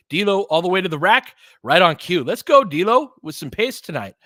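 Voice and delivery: hyped announcer urging the guard on; excited call. Real, not acted. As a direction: let it rip as he hits the rack.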